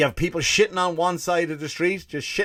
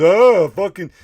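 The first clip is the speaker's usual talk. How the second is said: exasperated waiter; 5 semitones higher, 10 dB louder, slower than usual. Retold or imitated. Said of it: "And then he goes".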